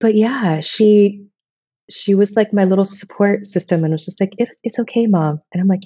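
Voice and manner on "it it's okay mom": lightly voiced tender daughter; comforting daughter. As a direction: gently reassure mom like her daughter did. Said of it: "so sweet and so comforting".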